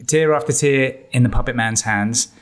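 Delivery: lightly put-on Los Angeles rap accent; a rapper's accent. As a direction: rap the lines in a mild LA West Coast accent. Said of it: "I'm gonna say it in his accent".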